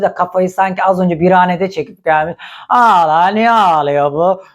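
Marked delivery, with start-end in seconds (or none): 2.7-4.4 mock drunk woman. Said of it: "Böyle ama sanki sarhoş gibi kadın".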